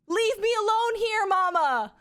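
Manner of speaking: very high, loud mock toddler holler; full volume toddler yell. Mom replaying her son's public outburst, high imitated yell. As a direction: imitate a small child yelling for all to hear. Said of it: "full volume at the grocery store".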